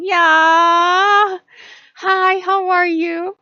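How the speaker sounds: high, loud, slow cat voice breaking into laughter; a needy kitten, cracking up mid-line; laughing cat voice. Pretend. Cat voice ignoring question.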